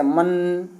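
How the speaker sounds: मन with the न clearly resonating through the nose; teacher shows nasal sound of मन; nasal anusvara demo. Shown as a demonstration. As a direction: let मन hum through the nose at the end. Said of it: "नाक से हो रहा है ना".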